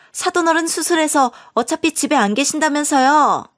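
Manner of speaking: pleading then pushy younger in-law; pushy sister-in-law. Acted. Sister-in-law pushes for the house.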